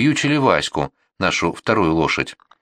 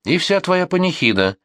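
much higher, flung-out yell; shouted jeer; 10 semitones higher than usual. A narrator's reading. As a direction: hurl it after them from the sleigh. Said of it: "крикнул за ним второй".

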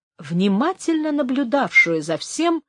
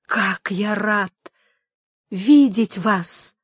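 very slow, heartfelt welcome; drawn-out, delighted greeting; glad greeting; much slower than usual. A narrator's reading. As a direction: savour the pleasure of the meeting. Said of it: "очевидно обрадовавшись неожиданной встрече".

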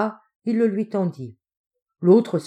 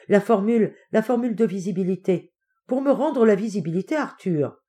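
raised, eager feverish voice; 3 semitones higher, 3 dB louder than usual. Acted. Invisible man demanding the visibility formula from Arthur, feverish. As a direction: urge it with feverish insistence. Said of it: "dictées d'une voix fiévreuse".

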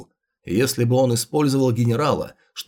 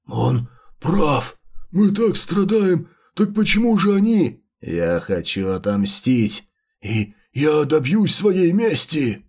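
vengeful chimeras; slower than usual. Acted. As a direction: howl for revenge. Chimeras call for revenge.

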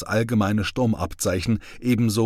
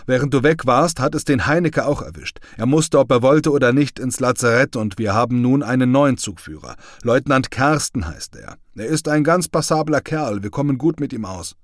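a lightly voiced soldier, higher and louder; a soldier welcoming back his comrade, lightly voiced; comrade's cheerful voice; 4 semitones higher, 5 dB louder than usual. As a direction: tease a returning friend, lightly voiced. Gollnick reporting news.

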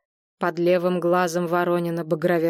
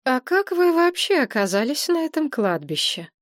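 pitched-up strict interrogation; stern question; 7 semitones higher than usual. A narrator's reading. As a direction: demand an answer, sternly. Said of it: "строго осведомилась Надежда Николаевна". (строго, допросным тоном)

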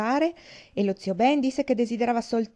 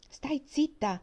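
a booming order, pitched up; voce tonante; 6 semitones higher, slower than usual. Acted. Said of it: "disse zio Ben con una voce tonante". (ordine tonante)

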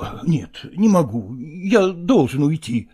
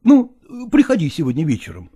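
ordinary delivery

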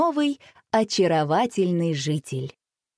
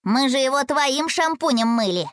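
smirking; 6 semitones higher than usual. A narrator's reading. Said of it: "хмыкнул Рома".

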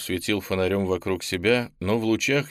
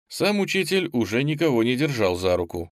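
ordinary delivery, nothing marked

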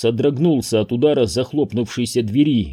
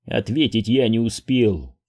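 plain reading voice

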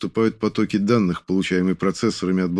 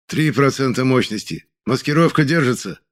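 raised, urgent calling out; shouted report; 5 semitones higher than usual. Acted. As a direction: shout the progress over the noise. Kan calling out progress.

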